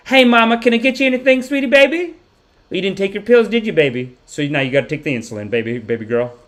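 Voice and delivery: sugary southern-accented nurse impression; imitated southern accent. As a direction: gush in a put-on southern accent. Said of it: "like, a southern accent".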